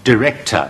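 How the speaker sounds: director頭一音節讀成好弱嘅də; 示範director，開頭輕輕弱讀; 開頭弱音. Shown as a demonstration. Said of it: "用嗰個好弱嗰個音". (將director讀成də-rector)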